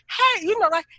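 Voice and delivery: high, sharp called-out "hey"; confrontational hey. Acted. Coming off wrong to a partner, confrontational. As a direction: come at them with a high "hey". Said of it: "when you come off like".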